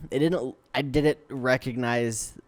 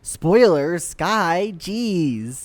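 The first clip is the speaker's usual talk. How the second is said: higher-pitched playful telling-off; mock scolding; 4 semitones higher, 3 dB louder, much slower than usual. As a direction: scold a friend in pretend outrage. Mock-scolding a friend for spoiler.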